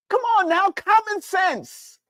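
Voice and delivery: rising preacher's challenge, then slow down; challenging. Real, not acted.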